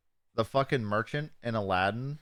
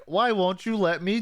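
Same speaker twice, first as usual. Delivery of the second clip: pleading muffin; 9 semitones higher, 4 dB louder than usual. Retold or imitated. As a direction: beg like a tiny doomed muffin. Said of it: "he's like".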